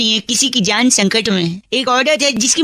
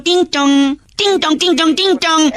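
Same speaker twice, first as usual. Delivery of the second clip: doorbell sound; 4 semitones higher than usual. Acted. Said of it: "घड़ी की घंटी बजाता हूँ".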